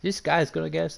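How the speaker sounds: high-pitched put-on London football manager accent; badly faked London manager accent, pitched right up; Harry Redknapp accent. Streamer mimicking a manager praising a new signing, badly faked London accent. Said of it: "I can't do a Harry Redknapp impersonation".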